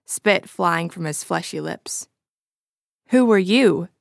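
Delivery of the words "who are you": short, louder and clipped question; curt. Acted. Stranger curtly returns Ed's question, unimpressed. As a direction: turn the question back coldly. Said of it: "the stranger asked curtly".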